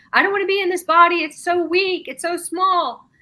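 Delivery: recalling a terrified outburst under hypnosis; retold panicked scream. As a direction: relive the panic of being trapped in a body. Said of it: "and I was screaming".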